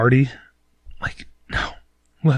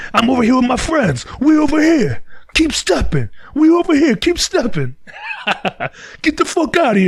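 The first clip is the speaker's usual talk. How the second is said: shouting someone off; 14 semitones higher than usual. Retold or imitated. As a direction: run the beggar off with a shout. Stranger shouting off a bum.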